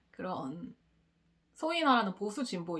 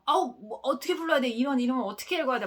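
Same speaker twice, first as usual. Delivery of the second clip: higher, quick, put-upon teacher voice; exasperated teacher; 4 semitones higher, 5 dB louder than usual. Retold or imitated. Teacher complaining to class about a name, fast and exasperated. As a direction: sigh out the complaint like a flustered teacher. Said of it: "막 이러면서".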